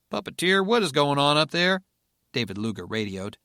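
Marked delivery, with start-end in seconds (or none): 0.1-1.8 alarmed radio call. Acted.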